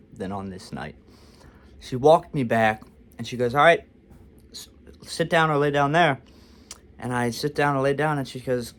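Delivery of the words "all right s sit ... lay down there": raised, brisk mock order; mildly curt retold instruction; brusque nurse. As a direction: imitate a nurse who dislikes her patient. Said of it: "this lady absolutely hates me".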